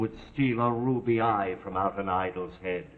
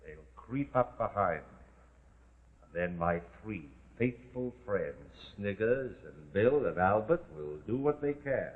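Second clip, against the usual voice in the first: much softer, low conspiratorial voice; hushed scheming; 3 semitones lower, 6 dB quieter than usual. Acted. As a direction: lay out the trap in a hush. Toff lays out ambush in hushed tones.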